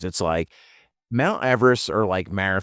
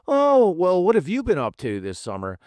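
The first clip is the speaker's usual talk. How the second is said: mock smug climber; 4 semitones higher than usual. Mocking smug Everest climbers.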